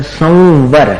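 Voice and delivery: संवर with the anusvara blended into a lip-teeth व, no म; slow संवर, nasal flowing into व; lip-teeth nasal demo. Shown as a demonstration. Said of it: "ऊपर के दांत और नीचे के ओठ को मिलाकर".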